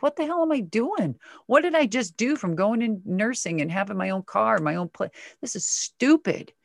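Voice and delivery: high, exasperated self-scolding. Retold or imitated. To herself after losing her car, exasperated. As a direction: berate yourself for a bad choice.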